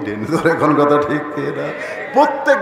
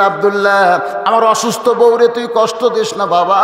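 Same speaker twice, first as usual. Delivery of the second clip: father calling out; 3 semitones higher than usual. Retold or imitated. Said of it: "বাবা চিল্লায় বলে".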